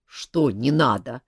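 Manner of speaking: slow, low, irritated question; a king annoyed at the fuss. Acted. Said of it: "раздражённо вопросил король".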